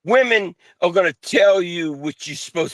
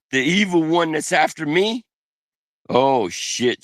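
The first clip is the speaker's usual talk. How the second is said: ordinary talk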